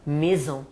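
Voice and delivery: Maison said as mezon, ai as e; maison, nasal end; French maison. Shown as a demonstration. Teacher showing students maison again. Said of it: "aí eu pronuncio E".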